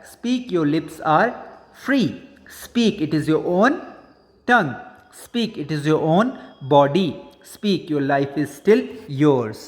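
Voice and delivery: slow, measured recitation with pauses; poem recitation. Acted. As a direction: recite the verse line by line, unhurried. Recites the stanza again. (धीमे, ठहर-ठहर कर कविता पाठ)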